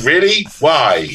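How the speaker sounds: high questioning "Really", dropping on "Why"; mock disbelief. Author asked by Germans to read, mock disbelief. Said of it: "And I'm going".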